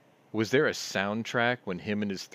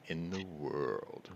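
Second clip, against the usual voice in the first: Clarkson; 2 semitones lower, 6 dB quieter, much slower than usual. Acted. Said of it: "I had a Clarkson moment there".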